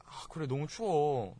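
soft, slow and agreeable; mild, softened complaint about the cold; said nicely. Shown as a demonstration. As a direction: gently go along with them. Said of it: "이쁘게".

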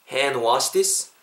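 "Hand wash this" slowly, d dropped, rising end; repeat-after-me model. Shown as a demonstration. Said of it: "따라해 보세요".

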